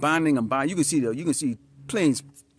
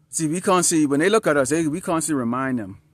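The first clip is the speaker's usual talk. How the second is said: preaching loud; 5 semitones higher, 7 dB louder than usual. Real, not acted. Preacher rising to full force.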